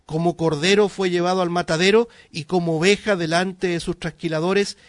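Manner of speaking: emphatic Scripture reading. Acted. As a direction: proclaim the verse with force. Reads Scripture aloud emphatically.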